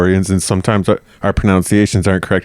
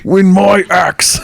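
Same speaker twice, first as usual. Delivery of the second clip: hammed-up Scottish, would-be Sean Connery; Scottish accent; 8 semitones higher, slower than usual. Bickering over the ancient temple, put-on Scottish accent. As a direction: declare it in broad Scottish. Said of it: "That's a good Scottish accent".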